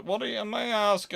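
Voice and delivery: normal talking voice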